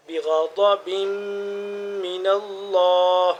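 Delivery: بغضب slow, غ and ض thick; heavy ghain and dad. Shown as a demonstration. Teacher models heavy غ and ض in بغضب for students. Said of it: "غین کو موٹا، ضاد کو موٹا".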